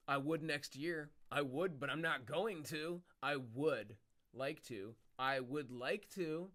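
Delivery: slow drawn-out mock phrasing. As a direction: drag each word out mockingly. Mocking repeated phrase.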